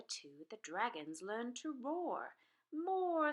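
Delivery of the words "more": loud, higher call for more; loud high teacher's call; teacher's demand. A narrator's reading. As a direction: push the class to roar. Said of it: "said Madam Dragon".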